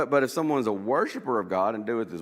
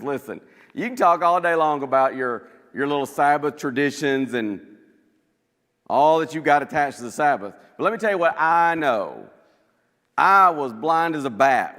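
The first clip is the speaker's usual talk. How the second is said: loud and emphatic, each claim landing hard; bold loud answer; 4 semitones higher, 8 dB louder than usual. Acted. Healed blind man answering the Pharisees, loud and firm. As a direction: stand up to them with a ringing voice.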